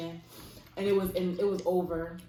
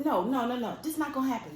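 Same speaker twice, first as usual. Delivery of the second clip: imitated aunt butting in, higher-pitched; cutting him off; 5 semitones higher than usual. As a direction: act out an aunt refusing to let him speak. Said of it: "she kept cutting him off".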